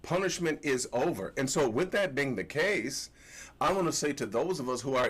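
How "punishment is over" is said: excited declaration. Retold or imitated. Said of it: "I'm like".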